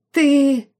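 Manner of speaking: high, loud bleat; high panicked goat bleat. A narrator's reading. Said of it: "заблеял сын маркиза".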